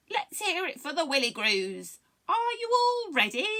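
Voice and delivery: high, loud hype announcer; rallying call. Acted. A frog rallies the pond for a song, calling out. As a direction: whip up the crowd, rising high. Frog calls to crowd before singing.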